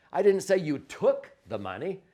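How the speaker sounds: didn't hit high and loud; stress on didn't. Shown as a demonstration. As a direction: punch didn't in denial. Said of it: "emphasize each one of the words differently".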